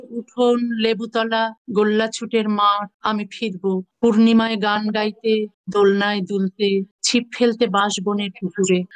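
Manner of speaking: measured, solemn poetry reading; poem recitation. Acted. Reads her own exile poem.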